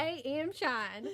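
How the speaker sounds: slow, hammed-up Southern name, laughing; exaggerated Southern accent. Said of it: "my southern accent comes out".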